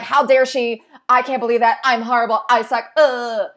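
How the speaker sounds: loud, exasperated jealous outburst; a loud, hammed-up spiral of envy into self-blame; jealous inner rant. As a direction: vent the envy and self-loathing at full volume.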